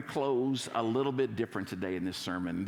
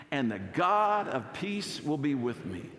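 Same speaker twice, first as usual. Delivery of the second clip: slow, raised-pitch declaration; joyful recitation; 4 semitones higher, 4 dB louder, slower than usual. Shown as a demonstration. Pastor has congregation say the last part with him, joyful. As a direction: lead the line with joyful emphasis. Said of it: "gonna say this with joy".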